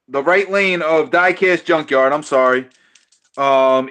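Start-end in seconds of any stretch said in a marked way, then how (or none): 0.1-2.1 live race commentary; play-by-play. Acted. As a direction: call the race like an announcer. Calls the dice race live.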